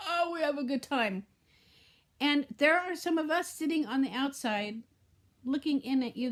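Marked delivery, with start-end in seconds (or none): 0.0-1.3 mocking laugh. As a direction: laugh at the perfect picture. Mocking commercial family gathering.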